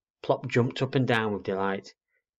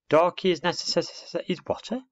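baffled owlet; 9 semitones higher than usual. Acted. Owlet trying the girl's long word, baffled. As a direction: stumble over "necess-", then squeak a puzzled question.

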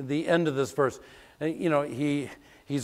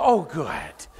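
put-on pleased old aunt; 5 dB louder than usual. Aunt pleased to die soon.

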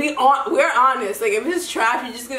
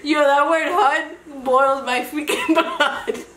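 laughing; 5 semitones higher, slower than usual. Real, not acted. Laughing while retelling.

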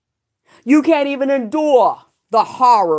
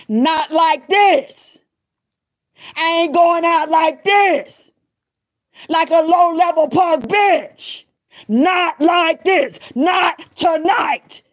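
defiant shout; 5 semitones higher, slower than usual. Retold or imitated. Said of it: "that's what she heard me saying".

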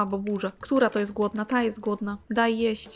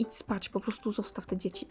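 whisper; 2 semitones lower, 10 dB quieter than usual. Real, not acted. Telling Sim to leave the kids.

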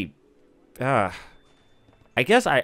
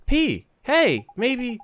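Welsh fairy voice; 10 semitones higher than usual. Acted. Reads Drippy's game lines.

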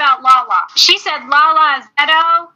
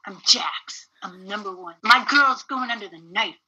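mock Jax boast; 5 semitones lower than usual. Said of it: "I am Jax".

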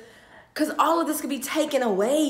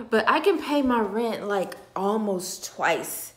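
tearful repeat; 2 semitones lower than usual. Real, not acted. Vlogger tells followers she can pay rent, tearful. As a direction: say it again through tears. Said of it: "I am sharing my tears".

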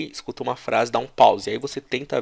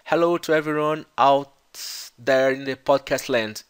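slow demo; 3 dB louder than usual. Shown as a demonstration. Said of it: "O que ele quer dizer é o seguinte".

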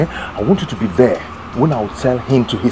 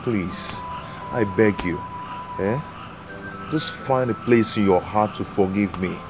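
desperate pleading. Acted. Man begging on knees, pleading.

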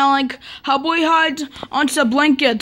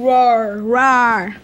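playful scary roar; much slower than usual. Pretend. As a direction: pretend monster roars. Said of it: "I will scare you".

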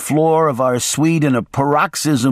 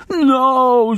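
put-on high, drawn-out old woman's groan; groaning maid; 13 semitones higher than usual. A narrator's reading. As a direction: moan it in a high frightened voice. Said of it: "she groaned".

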